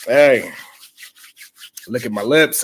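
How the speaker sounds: smooth pickup line, showing off lips; Lorenz Tate impression. Flirting with her in Harlem, smooth Lorenz Tate voice. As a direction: lay on the charm like Lorenz Tate. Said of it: "I was doing my Lorenz Tate".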